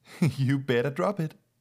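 high, loud, speaking through laughter. Ingrid calls to her daughter, who is swinging a pillow, laughing. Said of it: "Ingrid called, laughing".

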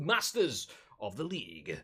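slow, drawn-out put-on voice. Wrapping up, naming what comes next on the channel: Jeremy Clarkson voice. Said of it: "said in a Jeremy Clarkson voice".

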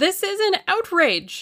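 shrill, very high, hysterical cry. The Russian faces Julius, who has taken his measure, and cries out in a high, hysterical voice. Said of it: "Cried the Russian in a high, hysterical voice".

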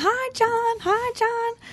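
high, eager, excited calling out. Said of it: "And I start screaming".

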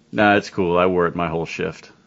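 put-on flat deadpan. Retelling a man's reply about wearing his mask, imitating a deadpan reply. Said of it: "he just deadpan and looks at me and goes".

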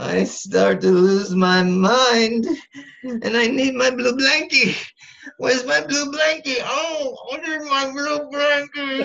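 shrill, very high, loud comic voice. Answering a question about rough times: Gene Wilder impression. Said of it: "how's that for a Wilder impression".

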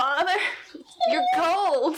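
strained, very high, hoarse croak. Voicing a weak, tearful character speaking to her father: croaking. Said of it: "she croaks out".

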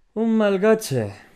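shrill scornful outburst, very high and loud. Narrator reading a story, Alighieri reacts to Jerry's reply: exclaiming with disdain. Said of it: "exclamó Alighieri en un tono cargado de desdén".

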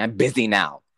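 normal talking voice

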